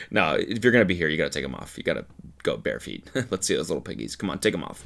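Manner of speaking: low, hushed insistence; creepy coaxing. Acted. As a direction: coax the guests softly. Acting creepy host coaxing guests.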